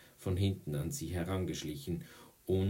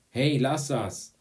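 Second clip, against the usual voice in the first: loud, high, slow protest; protesting shout; 7 semitones higher, 9 dB louder, slower than usual. A narrator's reading. Boy to girl who kicked his ball, protesting shout. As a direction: shout at them to stop.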